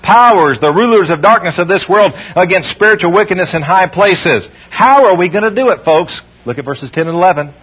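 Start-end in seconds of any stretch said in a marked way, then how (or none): 0.0-4.5 emphatic Bible reading; scripture reading. Acted. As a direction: declaim the verse to the congregation. Reads verse twelve paraphrase.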